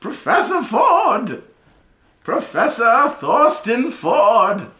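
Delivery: put-on high, loud, slow old wizard voice; a mad professor's booming announcement, drawn out; high slow professor proclaiming to his class; eccentric old professor. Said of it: "he goes".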